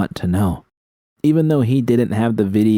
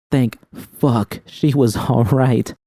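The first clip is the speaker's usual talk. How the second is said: relieved laugh; 4 semitones higher, slower than usual. Acted. Relief on hearing V's voice.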